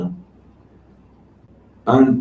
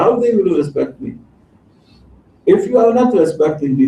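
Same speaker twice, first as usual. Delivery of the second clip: indignant complaint; 3 semitones higher than usual. Retold or imitated. Musa scolds Allah on the mountain.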